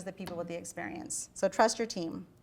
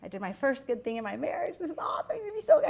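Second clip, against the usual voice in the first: excited; 3 semitones higher than usual. Retold or imitated. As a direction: replay being thrilled with yourself, rising as you go. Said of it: "I was all excited".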